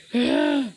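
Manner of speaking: high, short mock wail; acted crying wail. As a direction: let out a high play-acted cry. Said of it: "everybody hears him crying".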